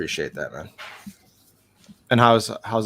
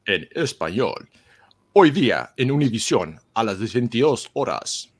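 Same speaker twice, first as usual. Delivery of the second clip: mock Spanish TV announcer; 5 dB louder than usual. Announcing tonight's show on Univision, mock Spanish announcer.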